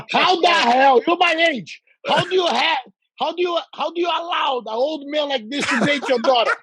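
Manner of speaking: hammed-up disbelief, half yelling at the student; mock outraged shout. Coach retelling how he shouted at his student in disbelief, mock outrage.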